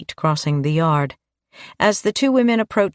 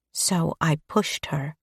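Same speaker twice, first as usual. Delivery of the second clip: no emotion; 6 dB quieter, slower than usual. A narrator's reading. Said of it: "said Mary with no emotion".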